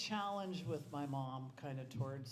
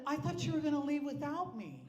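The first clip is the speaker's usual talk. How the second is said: retold mom's protest; 10 semitones higher, 7 dB louder than usual. Retold quarrel with mom on the boat.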